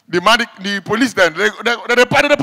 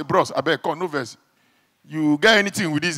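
softer, lower hushed aside; hushed plea; 5 semitones lower, 7 dB quieter than usual. Retold or imitated. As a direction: ask the deacon quietly, almost secretly. Timid whisper to deacon.

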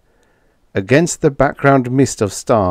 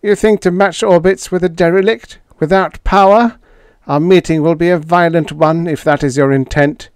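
higher alien voice, incredulous; alien Schla; 9 semitones higher, 4 dB louder, faster than usual. A narrator's reading. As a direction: play the alien in disbelief.

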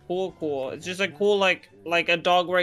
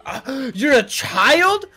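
mock shock; 6 semitones higher, 7 dB louder, much slower than usual. Mock shocked gasp at friend.

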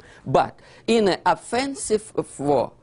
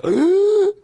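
high, loud startled gasp; sharp gasp; 7 dB louder than usual. Acted. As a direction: suck in air as if ambushed. Acting out sudden attack.

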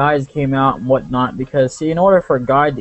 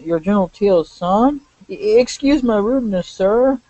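higher-pitched flustered guard; startled, apologetic guard; 8 semitones higher than usual. Acted. Guard apologizing to General Teal's son, acted startled and flustered.

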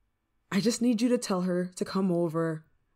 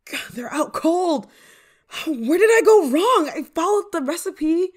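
high, loud distress; panicked; 8 semitones higher, 7 dB louder than usual. Acted. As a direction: wail over a spell gone wrong. Friend out cold, witch panics.

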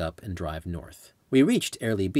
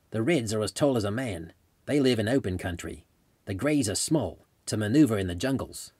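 put-on Australian accent. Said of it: "in his Australian accent".

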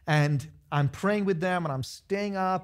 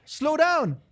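slow down; 10 semitones higher, 4 dB louder than usual. Real, not acted. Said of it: "Nobody's sitting over here".

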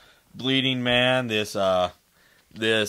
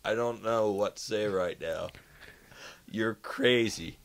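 slow, measured disbelief with pauses; retold stunned disbelief; 2 semitones lower, 3 dB quieter, slower than usual. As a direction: react as if lost for words, spacing it out. His stunned reply to uncle's story.

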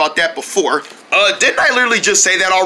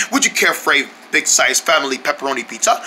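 put-on British accent; 6 semitones lower than usual. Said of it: "British accent".

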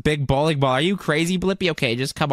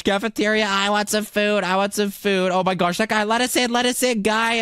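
high-pitched, excited begging; eager pleading; 6 semitones higher than usual. Pretend. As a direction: plead like a hungry kid at a door. Begging a guard for food.

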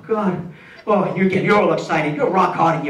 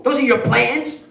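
retold scream; 5 semitones higher than usual. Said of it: "she starts screaming at me".

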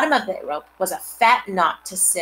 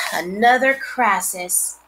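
groaning; 2 semitones higher, slower than usual. Acted. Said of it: "groaned Fern".

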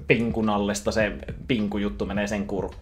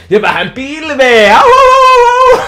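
cartoon stoner voice; 20 dB louder, much slower than usual. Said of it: "Bob siellä".

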